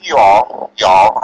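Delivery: slight southern drawl on y'all; y'all with a touch of southern accent. Real, not acted. New Jersey native addressing officials, slipping into a southern accent. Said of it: "I have a southern accent".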